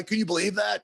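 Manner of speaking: high mock disbelief; lightly voiced dog owner. Voicing the owner again.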